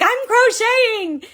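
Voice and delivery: high, drawn-out squeal of delight; giddy excitement. Retold or imitated. Crocheter squealing at her own work, giddy. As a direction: gush it like you just noticed your own stitches. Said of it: "And I get really excited".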